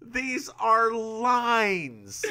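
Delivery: high, slow laughing insistence. Real, not acted. Telling her partner the phrases are just lines, laughing. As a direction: drag the words out, cracking up. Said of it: "teasing, laughing emphasis".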